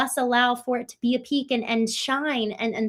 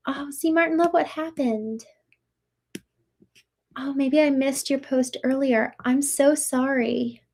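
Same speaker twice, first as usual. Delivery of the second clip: sympathetic; 2 semitones higher than usual. Real, not acted. Streamer to a viewer who feels broken inside, sympathetic.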